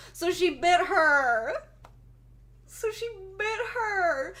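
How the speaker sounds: laughing. Real, not acted. Laughing retelling the bite.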